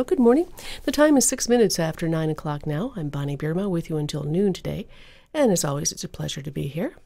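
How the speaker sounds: smooth on-air announcer read; public radio host. Acted. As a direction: introduce the hour like a radio host.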